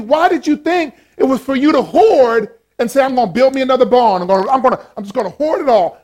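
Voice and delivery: a touch of an exasperated God; God questioning. Acted. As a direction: press him hard, astonished. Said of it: "He says".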